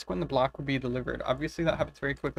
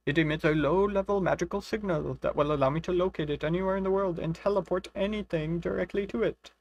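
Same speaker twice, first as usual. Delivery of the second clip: lightly voiced pompous wizard, a bit higher; mock wizard voice; 4 semitones higher than usual. Voicing the wizard Cromperty to her friend, mock pompous. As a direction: play the boastful inventor, hamming it up lightly. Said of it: "Your accents are the cutest".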